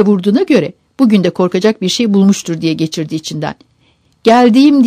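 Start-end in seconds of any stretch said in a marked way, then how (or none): 4.2-4.8 high, loud call to the door; harried raised shout; shouted answer. A narrator's reading. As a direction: yell that you're on the way. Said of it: "diye bağırdı".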